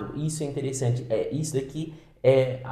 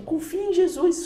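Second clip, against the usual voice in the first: laughing; 13 semitones higher than usual. Real, not acted. Laughing emphatic advice.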